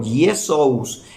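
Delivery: Jesús said as "ye-sous"; Jesús with a "ye" onset; Greek-like name. Shown as a demonstration. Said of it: "parecido al griego".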